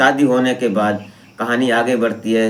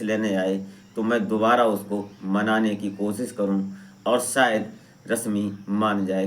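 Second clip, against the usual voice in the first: softer, subdued storytelling; story narration; 5 dB quieter than usual. A narrator's reading. Narrator tells listeners of a wife leaving Shekhar, subdued storytelling. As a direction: tell the sad tale softly.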